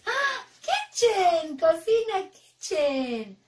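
grito alegre, agudo y fuerte. Shown as a demonstration. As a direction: dilo con alegría exagerada. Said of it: "A ver, alegres". (alegre y eufórico)

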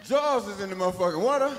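loud, laughing protest; outraged protest. Retold or imitated. Willie refuses to jump in, loud laughing protest. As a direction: push back, outraged.

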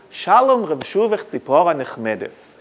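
round, gentle Ashkenazi Hebrew, stressing early syllables; Ashkenazi accent. Shown as a demonstration. Speaker demonstrates Ashkenazi recitation of the poet's verse, Ashkenazi accent. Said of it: "in the Ashkenazi accent".

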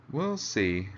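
mildly unenthusiastic; noncommittal, with little eagerness; without much enthusiasm. Acted. Leader answering a request for work, without much enthusiasm. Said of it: "without much enthusiasm".

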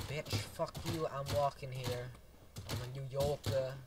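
loud, brash fake New York accent; bad New York accent. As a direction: put on a terrible New Yorker accent. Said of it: "That is the worst New York accent ever".

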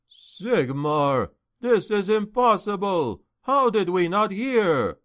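aghast captain, voice lifting high; shocked disbelief. A narrator's reading. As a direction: exclaim in stunned disbelief. Captain discovers dead guards, aghast.

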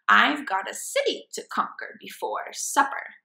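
hammy mad scientist gloating over his robot; grand evil-genius monologue; villain scientist voice. Acted.

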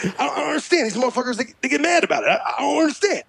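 baffled rapper impression, stumbling over repeats. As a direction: imitate a rapper earnestly perplexed. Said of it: "He's dead serious".

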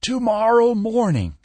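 hoarse furious promise. A narrator's reading. Peck threatens Skinner over the phone, hoarse and furious. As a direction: spit out the threat through rage. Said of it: "he promised hoarsely".

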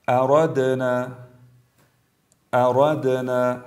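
recited اردنا with bounced د; brief qalqala. Shown as a demonstration. Tajweed teacher shows letter dal, bouncing د in اردنا. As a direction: release the د of اردنا briefly before the ن. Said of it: "مثال هایی هست حرف دال".

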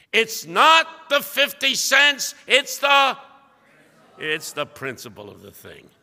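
high, slow, loud indignant outburst; a man digging in his heels, loudly; stubborn shout. Retold or imitated. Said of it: "And you know his response".

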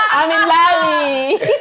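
laughing. Real, not acted. Proudly echoing the compliment.

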